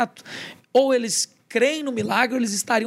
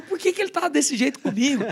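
higher-pitched, mildly indignant inner voice; retold indignation; 5 semitones higher than usual. Child wondering why dad treats him so, mock indignant. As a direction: replay a child's protest, lightly put on. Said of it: "E eu revoltado".

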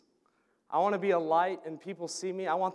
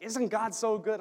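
higher-pitched retold enthusiasm; excited; 5 semitones higher than usual. Cleaning lady shares her faith with a fellow Christian, excited. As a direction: imitate her eager joy, pitched up. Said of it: "she got so excited".

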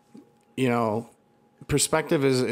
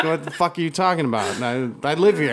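louder, higher indignant resident; 5 semitones higher, 5 dB louder than usual. Retold or imitated. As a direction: protest like the owner. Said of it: "it's like".

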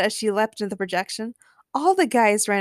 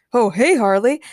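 loud, cheerful hello; happily; 2 semitones higher, 7 dB louder than usual. A narrator's reading. Joker greets Harley in the film, happily. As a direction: greet with happy energy. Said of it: "Joker said happily".

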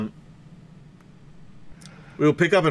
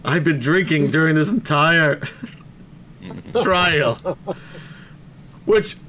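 laughing. Real, not acted. Laughing at drinking joke.

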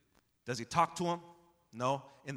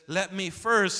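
quoting loudly; 5 semitones higher, 9 dB louder than usual. Acted. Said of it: "He says".

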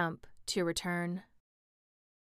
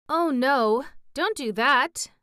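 louder and higher in alarm; alarmed exclamation; 6 semitones higher, 7 dB louder, slower than usual. A narrator's reading. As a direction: cry out to stop her. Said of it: "exclaimed the Tin Woodman".

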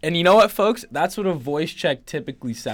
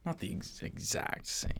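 whispered; 6 semitones higher, 15 dB quieter than usual. Real, not acted. Muttered correction.

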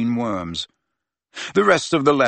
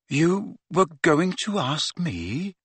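higher, slow, suddenly hopeful; completely different voice; 6 semitones higher, slower than usual. Acted. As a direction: let the question soften in surprise. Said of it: "in a completely different voice".

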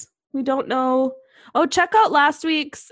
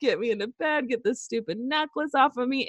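tearful plea; faster than usual. Retold or imitated. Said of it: "You're just crying in the tub".

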